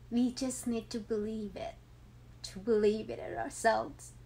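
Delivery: holding back tears as she says it; tearing up. Real, not acted. Mother sharing her grad success with viewers, tearing up. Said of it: "It make me cry".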